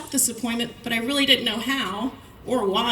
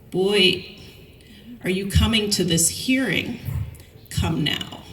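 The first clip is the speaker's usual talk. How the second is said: put-on father's Thai English accent; slower than usual. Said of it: "beautiful Thai English accent".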